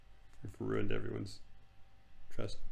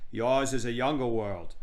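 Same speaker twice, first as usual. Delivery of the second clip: slow, grand regal voice; lightly voiced stately queen; haughty queen. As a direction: pronounce it as a queen.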